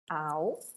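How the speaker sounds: Alface split into AL, FA, CE with long pauses; syllable by syllable. Shown as a demonstration. Teacher separates the first word for pupils, Alface in three isolated pieces. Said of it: "vamos separar".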